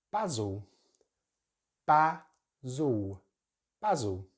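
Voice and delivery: basil with short a as in cat; British basil. Shown as a demonstration. Teacher modeling British basil. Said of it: "we're gonna use a short vowel sound".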